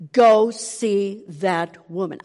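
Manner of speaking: drawn-out slow command; slow insistent voice. Retold or imitated. The inner voice pressing on the third day. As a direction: stretch every word like a calling. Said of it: "What was this voice telling me".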